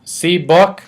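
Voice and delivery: lightly voiced toddler, rising question; a hint of a small child showing off his book; toddler asking. A narrator's reading.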